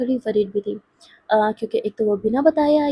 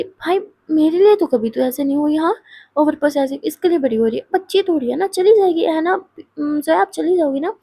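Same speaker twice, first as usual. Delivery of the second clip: higher, louder mock jealousy; jealous friend teasing, higher and louder; teasing complaint; 4 semitones higher, 4 dB louder than usual. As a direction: needle her for being overprotective. Mahi teases overprotective friend.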